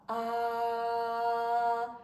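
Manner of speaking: airy, slow breathy vowel. Shown as a demonstration. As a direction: let air leak through the ah. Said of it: "성대를 많이 벌린다고 생각해보세요".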